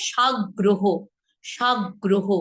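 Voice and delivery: সাগ্রহ split as "shag-groho"; দ্বিগুণ গ. Shown as a demonstration. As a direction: double the g in সাগ্রহ. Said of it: "same ভাবে". ("সাগ্রহ" বলো সাগ্-গ্রহ)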